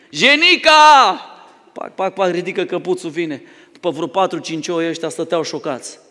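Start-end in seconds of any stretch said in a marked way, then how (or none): 0.1-0.7 higher, louder call across the pasture; calling by name. Retold or imitated. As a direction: sing out the sheep's name. Shepherd calls another sheep.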